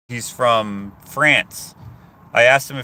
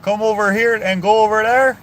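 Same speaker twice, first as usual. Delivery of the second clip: higher, louder mock French accent; French guy imitation; 11 semitones higher, 6 dB louder than usual. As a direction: imitate the French dude's broken English. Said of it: "he's like".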